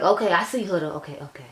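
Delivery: pleased, impressed "okay, I see"; happy excited. Retold or imitated. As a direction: gush a little, delighted and won over. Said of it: "Let me calm my little happy self down".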